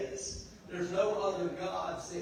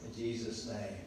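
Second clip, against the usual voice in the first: spoken prayer, falling lower toward the amen; preacher's short prayer before teaching; earnest prayer; 3 semitones lower than usual. Real, not acted. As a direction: pray over the congregation, settling down to the amen. Prays over the word.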